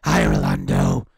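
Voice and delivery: hammed-up imitation of the girl on the phone; comic fake voice, rushed at the end; mock decoy girl. She gets on and goes.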